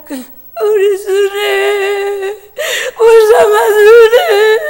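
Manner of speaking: put-on high, crying call of the child's name; mother sobbing. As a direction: wail her name through tears. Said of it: "하면서 엄마가 막 그냥 우는 거예요". (울부짖듯 높은 울음 섞인 목소리)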